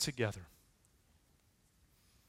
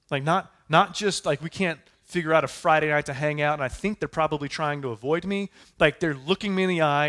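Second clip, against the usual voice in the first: rising preacher intensity; 2 semitones higher, 5 dB louder than usual. Real, not acted. Preacher builds to paraphrase.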